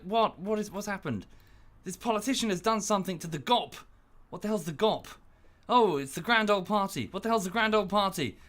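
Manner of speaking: high, incredulous questions; mock bafflement. A Brit on Reddit puzzling over American jargon, high and incredulous.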